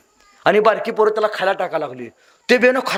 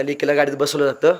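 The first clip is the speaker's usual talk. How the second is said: normal talking voice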